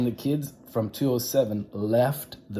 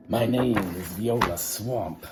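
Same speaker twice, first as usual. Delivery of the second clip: scratchy voice. Acted. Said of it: "in a scratchy voice".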